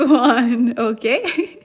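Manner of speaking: laughing through the word; can't hold back the giggle; cracking up mid-lesson. Real, not acted. Laughing at a funny sentence.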